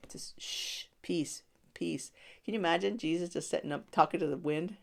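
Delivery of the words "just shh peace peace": whispered shh, then soft peace; calm them with a hush; soothing hush. Retold or imitated. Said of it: "Jesus was like".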